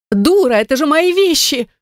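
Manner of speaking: high shrill protest; indignant shriek. A narrator's reading. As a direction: screech at her for throwing the clothes out. Brunette yelling over thrown clothes.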